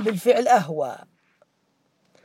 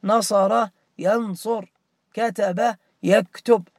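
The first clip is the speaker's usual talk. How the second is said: slow drilled verb pairs; slower than usual. Shown as a demonstration. Teacher drilling verb patterns for students, slowly. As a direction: say نصر ينصر and كتب يكتب slowly, syllable by syllable. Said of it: "نظر ينظر".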